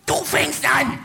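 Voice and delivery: retold yelled order; imitated shouting. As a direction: call it out as a challenge. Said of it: "zu schreien und schreit".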